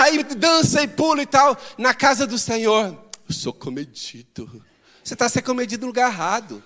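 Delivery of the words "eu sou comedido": soft, slow, low and prim; prim churchgoer voice. Retold or imitated. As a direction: play the stiff, reserved believer. Mocking a reserved churchgoer.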